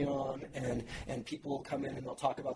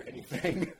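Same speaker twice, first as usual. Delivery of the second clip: laughing; 7 semitones higher, slower than usual. Retold or imitated. Retold wish to quit job.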